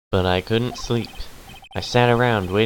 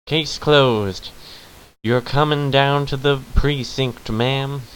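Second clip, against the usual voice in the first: higher-pitched southern detective; southern accent; 4 semitones higher than usual. Acted. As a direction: announce the arrest in a southern accent.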